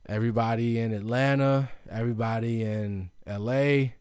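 mild yell, punching each place name; yelling shout-outs. Real, not acted. Podcaster thanking listeners by city, lightly yelled shout-outs. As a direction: call out each place, drawing out its last syllable. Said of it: "I'm just yelling".

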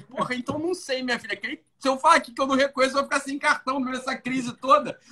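high, fast exasperated complaint. Retold or imitated. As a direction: complain in disbelief, rushing. Retold exasperated reply to bank.

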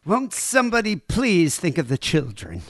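half-hearted cartoon busybody outcry; Helen Lovejoy impression. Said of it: "not gonna be able to do it that good".

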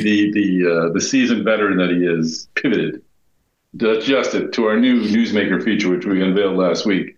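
sounds like a bag over the head; muffled, poor headset sound; muffled audio. Real, not acted. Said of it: "I'm gonna be a little muffled".

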